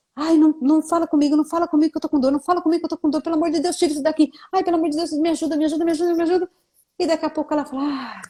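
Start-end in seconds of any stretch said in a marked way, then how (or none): 0.2-6.5 mock pained, hurting, pleading voice. Retelling a patient arriving at the office, imitating a patient in pain. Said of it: "Era a pessoa chegar no consultório assim".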